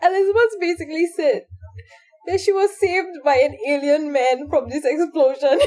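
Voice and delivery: high, fast, laughing through it; barely holding it together. Real, not acted. Cracking up telling story.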